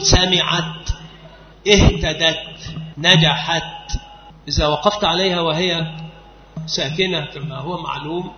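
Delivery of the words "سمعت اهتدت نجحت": سمعت، اهتدت، نجحت said slowly, each word stretched out; slow teaching demo of the stopped final ت. Shown as a demonstration. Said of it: "تقول".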